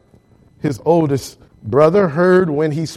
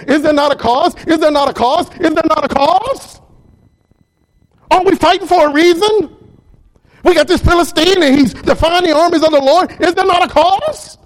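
rising higher with each repeat, louder; preaching at full force; 9 semitones higher, 3 dB louder than usual. Acted. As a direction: build the rallying cry to a peak. Climactic preaching crescendo.

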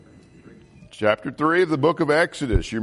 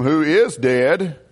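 "dead" drawn out slowly with weight; slow down and lean on "dead"; emphasis on DEAD; much slower than usual. Real, not acted. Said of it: "See the emphasis upon death".

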